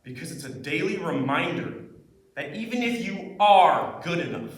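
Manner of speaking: intense, angry dramatic monologue with swelling peaks. Acted. Student performing a monologue for class feedback, intense. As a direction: deliver it intensely, pausing between bitter thoughts. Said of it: "This was a really intense monologue".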